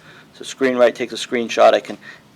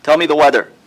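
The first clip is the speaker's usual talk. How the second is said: repeating to voice assistant; 4 semitones higher, 5 dB louder than usual. Real, not acted. Commanding the voice assistant.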